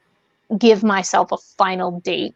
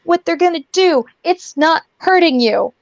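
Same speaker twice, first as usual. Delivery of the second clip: mock reasonable; 9 semitones higher than usual. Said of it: "they're like".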